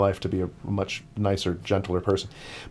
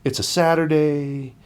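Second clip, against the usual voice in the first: almost welling up; 3 semitones higher than usual. Retold or imitated. Runner moved by a boy playing with his dog, almost welling up. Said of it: "actually almost welling up".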